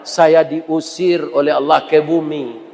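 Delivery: lightly voiced wife begging him not to stay; Siti Hawa pleading.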